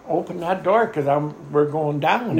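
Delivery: retold holler. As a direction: call out the order over engine noise. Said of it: "Rocky is hollering at us".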